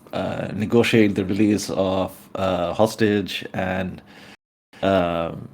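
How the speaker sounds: slow, measured correction; careful downplaying. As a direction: pick each word slowly to soften the accusation. The speaker carefully downplays the accusation.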